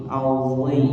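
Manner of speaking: "auzi" with a heavy, thickened emphatic z; "auzi" as the heavy Arabic sound; thick zho. Shown as a demonstration. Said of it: "Harus dibaca tebal".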